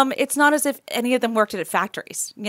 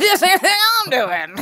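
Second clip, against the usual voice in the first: put-on South African accent; 6 semitones higher than usual. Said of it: "your South African accent".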